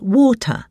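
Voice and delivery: "water" with a crisp T, not a D; clear T. Shown as a demonstration. Reader teaching the Queen's English, "water" with clear T. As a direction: say "water" with the T fully sounded. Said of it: "say the T clearly".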